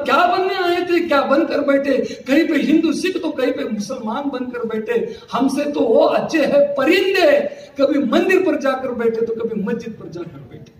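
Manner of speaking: measured, stretched-out verse endings; verse recitation. Acted. Preacher quoting a verse on birds and temples, poetic recitation. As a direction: recite it as shayari to a gathering.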